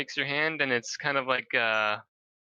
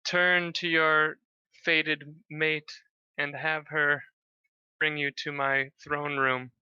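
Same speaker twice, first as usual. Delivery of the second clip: slow, raised commanding god; 4 semitones higher, slower than usual. Acted. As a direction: intone it like a deity. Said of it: "He goes".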